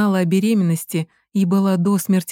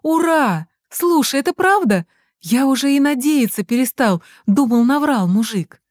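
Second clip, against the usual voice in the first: high, bright burst of happy disbelief; thrilled boy hearing good news; excited joy; 6 semitones higher than usual. Acted. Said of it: "Данькины глаза засияли". (радостно, взахлёб)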